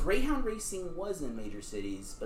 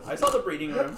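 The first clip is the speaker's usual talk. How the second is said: laughing as he repeats it; 5 semitones higher than usual. Real, not acted. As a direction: say it through a laugh, pitch up. Repeats line, laughing second time.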